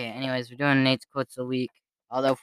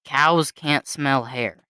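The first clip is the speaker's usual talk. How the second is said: slow deadpan quote; much slower than usual. Retold or imitated. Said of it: "This was definitely me".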